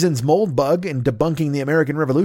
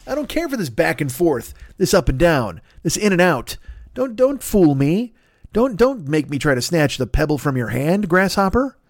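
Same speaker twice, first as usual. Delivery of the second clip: mock indignant; 5 semitones higher than usual. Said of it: "which I'm like".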